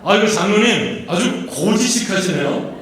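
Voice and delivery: playful pew-to-pew jab; teasing greeting demo. Shown as a demonstration. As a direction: say it as a cheeky compliment. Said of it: "인사하세요".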